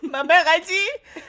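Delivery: slow words through laughter; laughing. Real, not acted. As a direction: laugh so hard it nearly cries. Laughing till tears.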